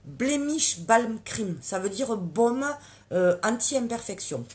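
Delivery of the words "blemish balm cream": English words in a French accent, slow and careful; accent français en anglais. Real, not acted. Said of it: "attention mon accent". (anglais prononcé lentement avec l'accent français)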